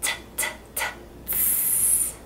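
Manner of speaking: T, t, t, then a long hissed tss; exploding T. Shown as a demonstration. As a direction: let the last T burst into S. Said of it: "I'm making it lazy or exploding".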